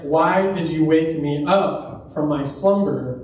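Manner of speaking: slow, understated grumble of complaint; mildly upset. Retold or imitated. Samuel to Saul on being woken from the dead, mildly upset. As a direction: draw out an annoyed question, lightly acted. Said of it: "he's upset".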